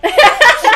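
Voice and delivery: high-pitched mock shriek; imitated scream. Imitating the girlfriend panicking at a movie, high mock scream. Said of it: "she's like screaming".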